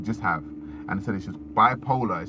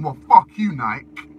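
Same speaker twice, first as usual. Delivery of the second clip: mock defiant shout; 8 dB louder, slower than usual. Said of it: "it's like saying".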